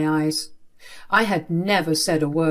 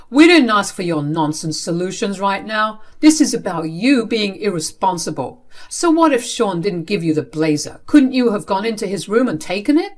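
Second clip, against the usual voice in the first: louder, cutting parental reproach; stern scolding; 2 semitones higher, 5 dB louder than usual. Acted. Father scolding child over unwashed blazer, stern. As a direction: tell them off firmly.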